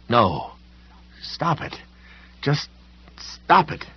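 high panicky begging; fearful, rising to a cry; frightened pleading. A narrator's reading. Sam terrified of the voice.

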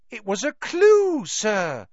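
high, emphatic elf voice; high elf, earnestly pointing out; Dobby explaining. A narrator's reading. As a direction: insist on it in a high creature voice.

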